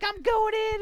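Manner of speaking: high-pitched mock-heroic cry; heroic announcement. Teammate diving under spiked ball, mock-heroic cry. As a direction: announce a doomed dive with hammed-up drama.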